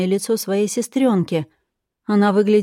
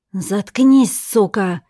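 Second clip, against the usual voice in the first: roaring; 2 semitones higher, 4 dB louder, much slower than usual. Acted. Captor lunges at the chained woman, roaring. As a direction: roar it as she lunges. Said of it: "Женщина взревела".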